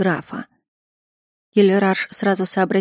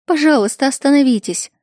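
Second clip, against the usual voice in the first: higher, louder begging; desperate plea; 6 semitones higher, 4 dB louder than usual. A narrator's reading. Princess begs her father and the count to stop, higher plea. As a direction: plead with them to stop.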